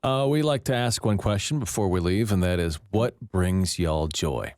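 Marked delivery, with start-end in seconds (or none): 2.9-4.6 slow, drawn-out Oklahoma drawl on "y'all"; playful Oklahoma twang. Shown as a demonstration. Host asks guests the closing question in a slow Oklahoma drawl. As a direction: stretch "y'all" out, lightly Texan. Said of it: "I put y'all in from Okla-, for Oklahoma to Texas purposes".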